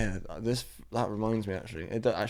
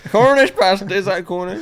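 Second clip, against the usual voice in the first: higher, louder mock Cornish accent; 8 semitones higher, 8 dB louder than usual. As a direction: ham up a Cornish accent again. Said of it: "That's a Cornish accent".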